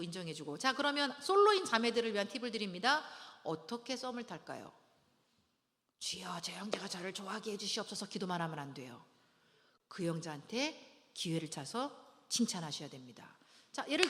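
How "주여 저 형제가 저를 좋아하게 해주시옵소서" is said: acted pleading whisper; whispered prayer. Single woman praying that a man likes her, whispered pleading. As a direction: whisper it as a secret plea to God.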